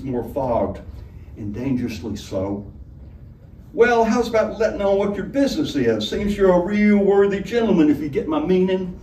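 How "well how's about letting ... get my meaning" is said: high, brassy, coaxing tavern woman; Honeybell. A narrator's reading. Honeybell pressing the guest for his name. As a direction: push him for his name, loud and high.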